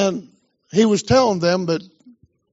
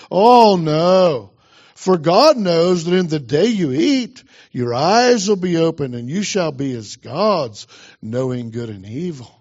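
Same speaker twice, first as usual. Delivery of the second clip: serpent tempting Eve; 3 semitones lower than usual. Acted. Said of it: "The serpent said to the woman".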